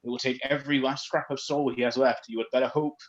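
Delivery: a throat-scraping spirit voice; ghost voice. Acted. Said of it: "That hurts my throat".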